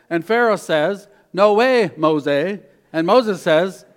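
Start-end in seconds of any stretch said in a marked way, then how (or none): 1.3-2.6 scornful refusal. Acted. Pharaoh refuses Moses.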